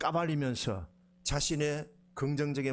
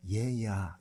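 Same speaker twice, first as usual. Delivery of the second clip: grandfatherly; 7 semitones lower, much slower than usual. Retold or imitated. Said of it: "할아버지가 손자한테 하는 그런 투예요".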